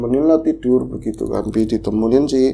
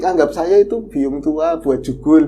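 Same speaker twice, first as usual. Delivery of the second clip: put-on old neighbour woman; 6 semitones higher, 3 dB louder than usual. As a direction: comfort her as an elderly neighbour. Menirukan nenek lain. (nenek tetangga menghibur, suara tinggi pelan)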